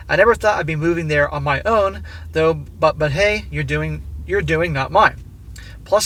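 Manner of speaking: steady read-aloud voice for a written letter. A narrator's reading. Narrator reading the letter to his wife, measured and even.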